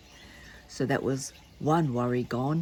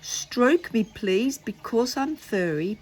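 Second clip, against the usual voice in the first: read song; 5 semitones higher than usual. Acted. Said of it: "I'm gonna read it".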